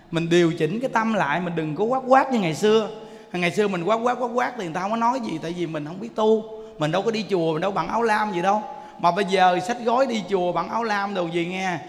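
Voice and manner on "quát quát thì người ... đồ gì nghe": ordinary delivery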